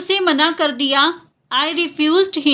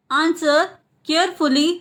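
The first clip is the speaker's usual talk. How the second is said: word by word. Shown as a demonstration. Teacher repeats the translation for learners, word by word. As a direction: clear pause between "Answer" and "carefully".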